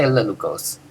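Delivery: "lelucos" softly, with no syllable stressed; unemphasized. Shown as a demonstration. Teacher saying the participle as just an adjective, unemphasized. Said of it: "You don't emphasize anything".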